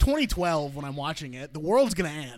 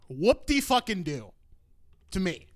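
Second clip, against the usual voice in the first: sarcastic. Real, not acted. Sarcastic reaction to greatest movie claim.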